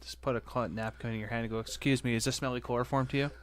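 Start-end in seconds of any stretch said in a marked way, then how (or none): 1.6-3.3 cheesy pickup line. Retold or imitated. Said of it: "Here's a pickup line for you".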